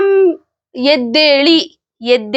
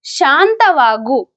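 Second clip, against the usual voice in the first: slow demo; much slower than usual. Shown as a demonstration. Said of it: "तो उस time हम बोलेंगे".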